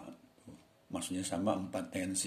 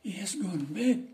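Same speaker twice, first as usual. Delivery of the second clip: higher, slow servant answering the master; 10 semitones higher than usual. Acted. Teacher reads the servant's lines to students, higher. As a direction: play the eager servant, pitched up.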